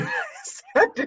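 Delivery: jokey British lilt climbing on "sentence"; rising intonation. Shown as a demonstration. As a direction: go up at the end on "sentence". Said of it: "go up at the end".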